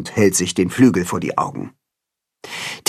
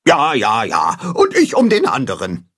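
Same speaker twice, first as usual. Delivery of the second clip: second goose adding her bit; goose chiming in. A narrator's reading. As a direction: agree with the other goose, huffily. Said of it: "ergänzt Gram".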